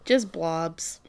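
unvoiced whisper. Real, not acted. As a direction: breathe it out.

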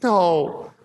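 high, drawn-out mock whine; imitated crying son. Upset son protesting to his dad, imitated wailing. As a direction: act out a tearful kid's protest. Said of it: "started crying. And he's like".

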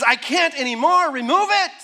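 pleading, rising high at the end; desperate Paul. Acted. Preacher voicing Paul at his limit before God, desperate. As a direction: beg for relief, voice climbing on the demand.

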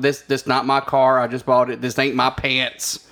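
slow, loud hammed-up denial; mock suspect excuse. Friend mocking every caught driver's excuse, slow and loud. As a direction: drag out a lame excuse. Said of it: "in his defense".

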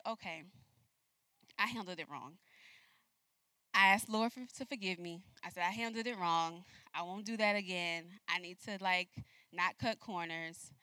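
soft, quiet confession; humble prayer. Retold or imitated. Woman quietly confessing to God, contrite. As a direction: say it small and contrite.

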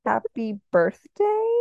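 slow, questioning retold reply; unsure guess. Child on phone guessing at friend's reason, hesitant. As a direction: offer it slowly as a tentative question.

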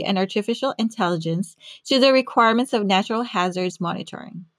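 measured, polished presenter read; scripted podcast narration. Acted. Host introducing a scientist to listeners, scripted narration.

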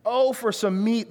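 high-pitched whine of complaint; whiny voice. Acted. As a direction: whine it like a put-upon grumbler. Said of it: "really whiny voice".

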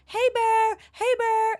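high, loud call to scare a bear. Retold or imitated. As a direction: shout it out to shoo a bear away. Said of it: "she was doing a loud voice".

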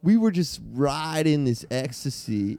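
a hint of a stoned beach bro, unhurried; surfer bro. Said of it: "Let's hear everybody's best surfer, bro".

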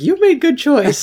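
high, loud mock Russian woman; Russian accent. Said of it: "And she's like".

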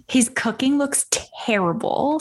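whispered aside. Real, not acted.

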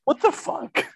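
high, incredulous outburst; shocked disbelief. Real, not acted. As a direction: blurt it out in shock. Reacting to virgin talk in movie.

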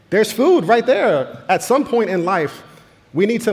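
high, loud and drawn-out exclamation; exasperated outburst. Acted. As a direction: belt it out slowly at a helpless teenager. Mock reply to hungry teenage son.

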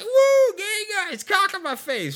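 very high, loud woo then falling; hammed-up excited woman; mock excited squeal. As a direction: squeal it like a giddy fan. Imitating excited woman at club.

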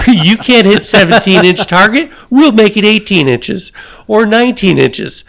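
high, sugary mock coaxing with a laugh breaking through; coddling coach. Coach mockingly coddles Jimmy the pitcher, high and sweet. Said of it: "They don't say".

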